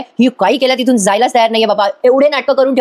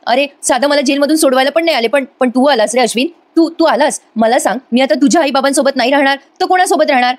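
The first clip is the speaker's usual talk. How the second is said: mock pitiful pleading; 3 semitones higher than usual. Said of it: "कळवळा आणायचं नाटक करते".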